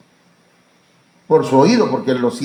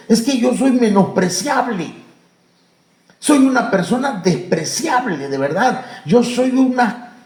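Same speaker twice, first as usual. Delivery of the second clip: higher, half-laughing voice of someone who thinks he's worthless; self-loathing believer; 6 semitones higher than usual. Acted. Preacher voicing a scorned churchgoer, higher and half-laughing. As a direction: play the despised man mocking himself.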